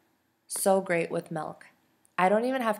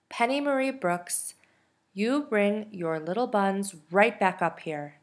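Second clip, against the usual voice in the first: cries out; 3 semitones higher than usual. Acted. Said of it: "my mother cries out".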